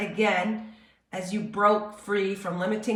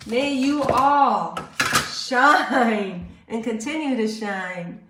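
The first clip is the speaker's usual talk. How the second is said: fervent blessing; 2 semitones higher, 6 dB louder, much slower than usual. Real, not acted. Closing blessing to the viewers.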